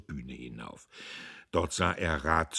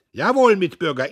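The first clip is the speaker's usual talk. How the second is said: loud, high speech; loud, high oration; bellowing orator; 11 semitones higher, 15 dB louder than usual. A narrator's reading. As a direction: harangue the hall. Diederich harangues.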